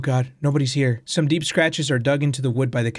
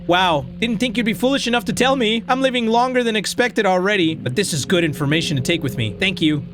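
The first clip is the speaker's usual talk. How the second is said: a lightly voiced sly talking potato, a bit higher; 6 semitones higher than usual. Potato in the drawer quizzing the player, lightly voiced and sly. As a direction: play the sneaky potato in the drawer, needling. Potato gloats over the secret.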